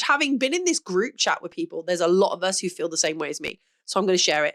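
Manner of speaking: audible heavy breathing. Real, not acted. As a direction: breathe heavily between words. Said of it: "Excuse the heavy breathing".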